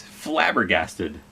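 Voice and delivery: Flabbergasted drawn out slowly, every syllable clear; teacher slowly repeating Flabbergasted; slow spelled-out word. Shown as a demonstration. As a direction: stretch out Flabbergasted for the kids. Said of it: "What do you think that means?".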